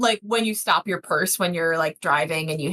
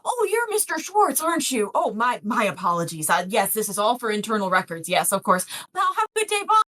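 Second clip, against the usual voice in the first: shaken deputy. Acted. Deputy apologizes to Mister Schwartz, mildly shaken. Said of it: "looks a little shaken and goes".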